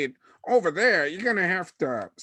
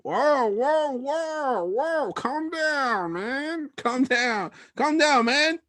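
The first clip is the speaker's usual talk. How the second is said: voice cracking; 7 semitones higher than usual. Acted. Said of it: "I lost my voice there".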